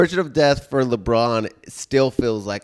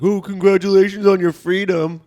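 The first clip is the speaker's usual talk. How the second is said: mock congratulations; 7 semitones higher, 6 dB louder than usual. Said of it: "I got tagged so many times, like".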